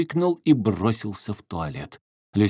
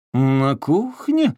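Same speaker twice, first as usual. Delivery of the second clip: slow, louder sarcastic jab; 6 semitones higher, 6 dB louder, much slower than usual. A narrator's reading. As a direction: needle her with a slow sneer. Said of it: "съязвил Вальдемар". (язвительно, медленно и громко)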